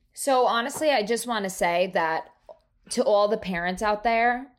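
slight, accidental Southern twang. Real, not acted. Addressing all parents, a Southern twang slipping out. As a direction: let a little Southern twang slip in. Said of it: "I just had a twang to my voice".

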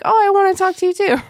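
very high, quick, loud imitation; hammed-up high girlish chirp; casually chirpy friend. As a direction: mimic an oblivious, eager friend. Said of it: "normal, like".

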